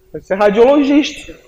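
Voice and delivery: punchline cracking into a high laugh; joking about radiologists, breaking into laughter. Real, not acted. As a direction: laugh through the joke's end.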